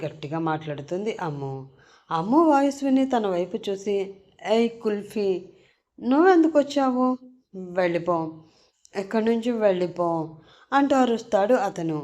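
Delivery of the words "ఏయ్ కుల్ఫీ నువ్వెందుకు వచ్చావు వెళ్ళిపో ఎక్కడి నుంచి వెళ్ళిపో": shout without anger. Acted. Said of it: "అరుస్తాడు ... అరుపులో కోపం ఉండదు".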